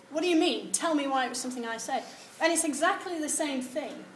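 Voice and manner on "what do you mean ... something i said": mock aggressive. Lecturer voicing the aggressive reading, mock aggressive. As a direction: confront them with a sharp demand. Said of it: "The other one is aggressive".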